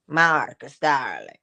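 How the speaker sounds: a lightly voiced tender greeting; short and sweet. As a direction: say the name like it holds everything. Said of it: "Short and sweet".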